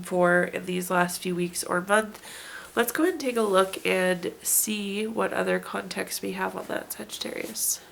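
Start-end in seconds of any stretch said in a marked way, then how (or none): 2.8-7.8 muffled underwater-sounding sick voice; hydrophone. Real, not acted. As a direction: talk as if through water, voice sick and muffled. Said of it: "I sound like I'm underwater".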